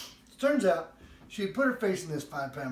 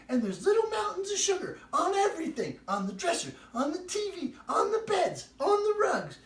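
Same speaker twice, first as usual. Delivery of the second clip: exasperated rising list; 12 semitones higher, 5 dB louder than usual. Retold or imitated. Wife listing mess, exasperated.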